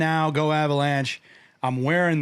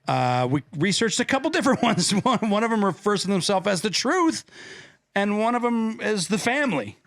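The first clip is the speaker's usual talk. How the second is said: show intro; 5 semitones higher than usual. Acted. Announces the show's topic.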